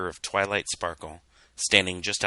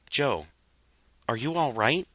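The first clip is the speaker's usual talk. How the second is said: higher, concerned asking; worried milk pony; 5 semitones higher than usual. Acted. Milk pony asking Joe if he's okay, worried. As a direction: gently check on a friend. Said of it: "asked the milk pony".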